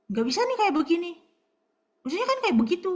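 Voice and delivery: grumbling complaint. Retold or imitated. Israelites grumbling at Moses in the desert, loud and whiny. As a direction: complain loudly like a sulking crowd. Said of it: "Ngomel, marah, mencurigai Tuhan".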